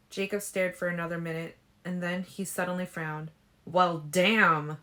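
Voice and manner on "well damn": louder gruff curse; annoyed louder curse; growled. A narrator's reading. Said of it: "he growled".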